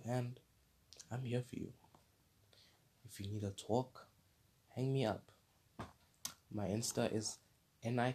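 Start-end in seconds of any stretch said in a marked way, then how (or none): 3.0-5.3 whisper. Real, not acted. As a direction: whisper it like a secret. Soft aside to viewer.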